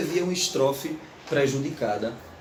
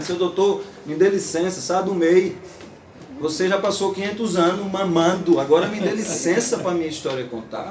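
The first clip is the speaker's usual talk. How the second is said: louder, firm and defiant, a little higher; defiant demand; 4 semitones higher, 3 dB louder than usual. Retold or imitated. Patativa confronting the learned doctor, defiant and loud. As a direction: stand up to the doctor, no bowing. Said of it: "E ele tá dizendo".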